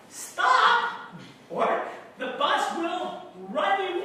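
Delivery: high, loud shout of warning; one sharp high yell. Acted. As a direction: shout it to halt someone in danger. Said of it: "loving for me to yell".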